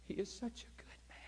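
hushed, breathy retelling of her words; imitating a whisper of praise; whispered quote. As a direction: whisper it like the tearful lady. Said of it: "She said".

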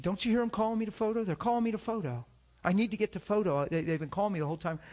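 nervous brush-off. Retold or imitated. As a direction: rush the excuse out, wanting to get away.

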